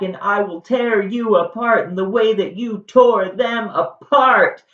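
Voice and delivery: high-pitched, hammed-up furious tirade; ranting rage. Jason rages at Medea over his dead sons, high ranting. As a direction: rant up high, building to a loud finish.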